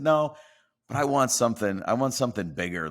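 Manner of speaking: insistent. Retold or imitated. Retold joking demand to boss.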